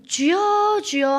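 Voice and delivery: high, loud, drawn-out cries to the Lord; imitating a congregation's loud call; fervent prayer call. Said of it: "하시는 거".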